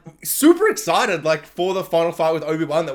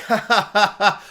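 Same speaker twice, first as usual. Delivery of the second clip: mocking laugh.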